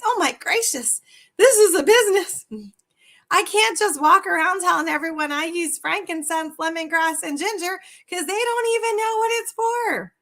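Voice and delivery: sudden realization. Pretend. Coach voices a new seller realizing it's a business, high surprised outburst. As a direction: gasp at how much work it is. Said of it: "they realize".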